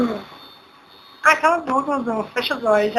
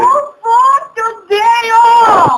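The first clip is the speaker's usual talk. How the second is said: loud high "não, meu Deus"; pained outcry; 6 semitones higher, 5 dB louder, much slower than usual. Real, not acted. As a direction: cry out as it goes through. Piercing done, cries out. (grito de dor)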